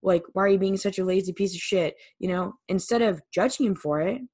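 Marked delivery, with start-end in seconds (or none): 0.0-2.0 a touch louder, faster, fed-up insult; imitating an annoyed partner, quick and a bit louder; mock exasperated jab.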